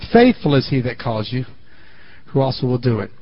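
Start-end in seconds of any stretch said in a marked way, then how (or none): none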